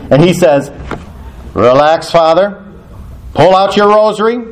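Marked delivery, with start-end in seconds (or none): 1.5-4.4 building from usual pitch to high and ringing; rally him, each instruction rising higher; upbeat reassurance. Retold or imitated. Friend calming stranded priest by phone, upbeat reassurance.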